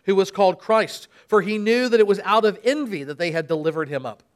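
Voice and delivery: dramatic Bible reading with voiced crowds; scripture reading. Pastor reads the Passion to the church, dramatic reading. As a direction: read the Passion aloud to the congregation.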